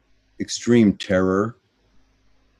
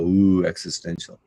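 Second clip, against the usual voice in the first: mock awe. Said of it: "sounded like such a philosophical".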